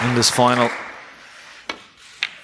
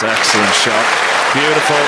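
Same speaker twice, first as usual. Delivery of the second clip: excited praise; 6 dB louder than usual. Real, not acted. Admiring a perfect split shot.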